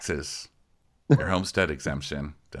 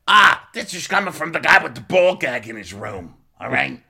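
high, loud mock outrage; Frank; 7 semitones higher, 5 dB louder than usual. Frank turning on Frankie, high loud indignant impression. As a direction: fire back accusingly in a pitched-up voice. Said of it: "And Frank's like".

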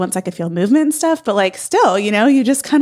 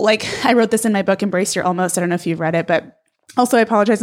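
short of breath, pushing through; talking while winded late in pregnancy; faster than usual. Real, not acted. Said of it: "I'm out of breath".

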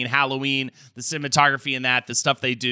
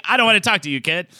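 high, dismissive Transatlantic brush-off; Transatlantic accent; 4 semitones higher, faster than usual. Retold or imitated. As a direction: wave him off, old-movie accent. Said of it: "Transatlantic accent".

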